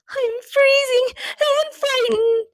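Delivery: high, soft shivering whisper; frightened whisper. A narrator's reading. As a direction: whisper from the cold and fear. Rocky scared in castle.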